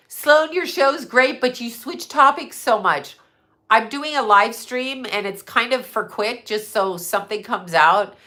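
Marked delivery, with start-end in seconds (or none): 0.1-3.2 mock viewer email. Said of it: "don't email on here and say".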